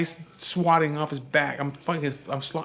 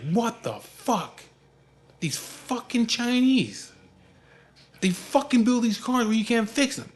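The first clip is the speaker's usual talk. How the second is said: flipping out; 8 semitones higher than usual. Retold or imitated. Father ranting about the car's builders, flipping out. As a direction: imitate dad losing it over the car. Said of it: "he's already flipping his shit".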